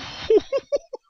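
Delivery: very high, loud breathy whoops; panicked hooting. Real, not acted. Player barely escaping his own trap, high panicked whooping. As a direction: let out shrieking hoots of panic.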